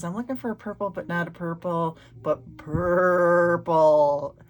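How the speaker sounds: lightly voiced girl drawing out the last purple; quoting the paint ad girl. Retelling the old paint ad, a mild mock of the girl's request. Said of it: "and she goes".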